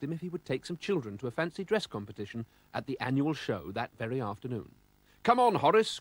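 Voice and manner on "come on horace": calling out. A narrator's reading. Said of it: "called Mister Oldcastle".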